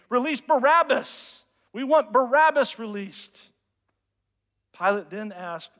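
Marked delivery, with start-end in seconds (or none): 0.1-3.5 raised, louder crowd cry, short of a full scream; retold crowd scream. Preacher voices the people demanding Pilate's choice, mock scream. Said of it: "the people over and over screamed".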